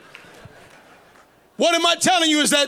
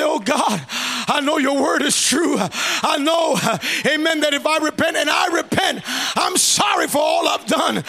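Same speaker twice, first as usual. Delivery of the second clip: fervent repentant prayer, starting to build; praying out loud; 3 semitones higher than usual. Acted. Sinner repenting before God, praying out loud. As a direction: pray aloud with growing urgency. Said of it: "have to open up your mouth".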